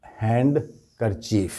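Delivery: "हैंडकरचीफ" split hand, kar-cheef with a clear d; slow "हैंडकरचीफ", HAND-kar-chief; common mispronunciation. Shown as a demonstration. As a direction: slowly sound the d in "हैंडकरचीफ". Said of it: "इस तरह से बोलती है".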